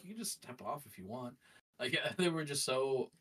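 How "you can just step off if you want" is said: quiet, reassuring imitation of a host; comforting host. Host telling a nervous contestant they may back out, softly comforting. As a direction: softly offer a gentle way out. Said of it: "comforting a person that's having a moment".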